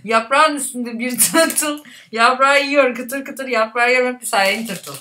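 talking through a stuffed mouth; words mushed by a full mouth; cheeks stuffed full. Real, not acted. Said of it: "Güzel dişin oldu yanlarda".

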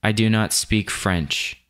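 slow, deliberate voiceover line; voiceover read. Shown as a demonstration. Recording a demo voiceover, slow careful read. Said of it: "let's record our voiceover".

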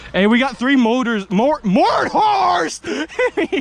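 loud sharp voice. Real, not acted. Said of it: "Why are you yelling at me?".

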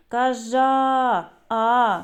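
Кажа then а, the vowel held alone; sounding out a syllable. Shown as a demonstration. Teacher sounds out кажан for young pupils, carefully separated. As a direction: stretch out the а sound on its own. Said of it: "голосний, позначаємо кружечком".

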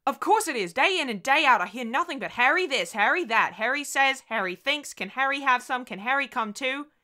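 high, loud, exasperated tirade; overwrought outburst. Acted. Wife worn down by Harry rounds on husband, overwrought. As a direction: pour out pent-up dread and resentment.

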